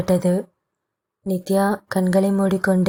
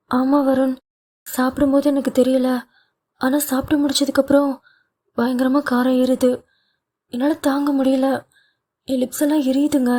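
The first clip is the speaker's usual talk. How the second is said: higher-pitched wife, quick and mildly distressed; 5 semitones higher, faster than usual. A narrator's reading. Wife complains to husband about burning lips, mildly distressed. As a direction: complain in a higher voice, hurrying a little.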